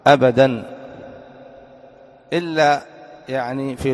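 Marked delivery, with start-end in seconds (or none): 0.1-0.8 أبدًا said loud and falling; teacher insisting on أبدًا; stressed always. Shown as a demonstration. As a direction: hit أبدًا hard. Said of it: "اللام مفتوحة".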